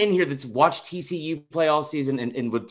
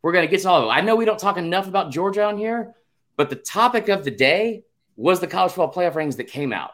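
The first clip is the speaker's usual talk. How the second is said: higher-pitched, insistent protest; defensive interruption; 4 semitones higher than usual. Real, not acted. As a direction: cut in and defend yourself. Cuts in to defend show's topic.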